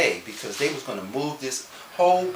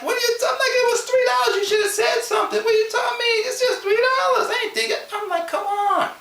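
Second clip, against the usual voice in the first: high, loud protesting shout; indignant shouting; 5 dB louder than usual. Retold or imitated. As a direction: yell at the boss that it was only three dollars. Arguing with boss over three dollars.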